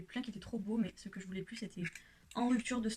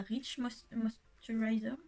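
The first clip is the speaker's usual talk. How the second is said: "Moisturizer" said slowly with a French accent; English word, French accent; much slower than usual. Real, not acted. Vlogger stumbling over an English product name, slow French-accented "Moisturizer". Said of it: "Non mais mon accent ça va plus du tout".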